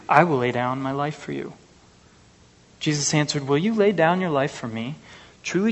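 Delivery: measured reading of the gospel passage; preacher reading scripture aloud. Acted. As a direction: read the verses to the congregation.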